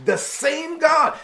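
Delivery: David fired up about God delivering him, mild excited build. Retold or imitated. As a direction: build it up with growing conviction. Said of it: "this is where he gets excited".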